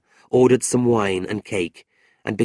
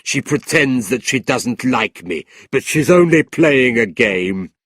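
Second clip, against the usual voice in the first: lightly voiced leering gentleman; 4 dB louder than usual. A narrator's reading.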